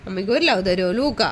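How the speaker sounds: low-pitched, coaxing plea; tender coaxing. Real, not acted. Parent asks little child for a hug, tender low coaxing.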